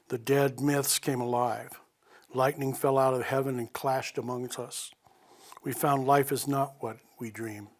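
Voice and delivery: poem reading. Acted. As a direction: read it like a remembered love poem. Reads a poem aloud.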